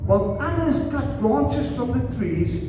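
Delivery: deliberate Bible reading, spacing out the phrases; scripture reading. Acted. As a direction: read the prophecy slowly to a congregation. Reads scripture aloud to congregation.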